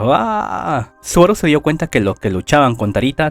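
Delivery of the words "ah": a high, short narrated ah; lightly voiced high ah of alarm; narrated scream. A narrator's reading. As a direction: yelp ah as he is thrown. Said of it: "Y Subaru grita".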